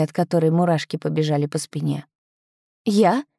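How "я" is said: surprised. Acted. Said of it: "удивилась я".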